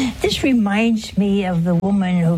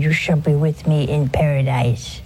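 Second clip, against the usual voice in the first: tender promise; 6 semitones lower than usual. Retold or imitated. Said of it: "our Lord said".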